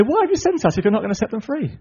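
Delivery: high, acted complaint; grumbling. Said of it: "They grumble back to the Lord".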